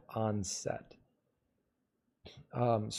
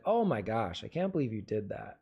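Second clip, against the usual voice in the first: quick, low, unvaried repeat of the first take; same rote reading; 4 semitones lower than usual. Shown as a demonstration. Actor repeating take one's delivery, rote. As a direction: say it as a rehearsed, pre-set line. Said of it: "I can't say it the same way".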